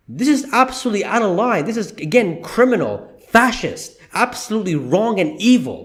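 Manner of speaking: worked-up, indignant condemnation. Real, not acted. YouTuber condemning the union's threats to workers, worked up. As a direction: punch out each accusation, worked up. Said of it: "Sorry if I'm getting worked up".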